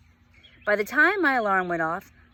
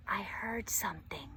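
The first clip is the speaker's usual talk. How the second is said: breathy whisper, much softer; 11 dB quieter than usual. Acted. Josie whispers her secret to Vanessa, hushed. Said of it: "I whispered".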